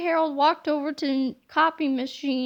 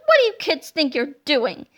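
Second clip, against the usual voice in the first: gruff scolding; 4 dB louder than usual. Acted. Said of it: "Mister Meaner barked".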